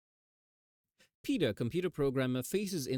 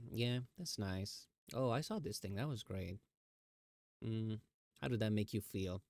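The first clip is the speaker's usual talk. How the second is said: low energy chill talk; 4 dB quieter than usual. Shown as a demonstration. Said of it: "this is how I talk".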